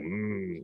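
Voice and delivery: soft imitated murmur of approval; poetry moo. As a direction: imitate a listener's "mm" at a poetry reading. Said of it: "you'll do your poetry moo".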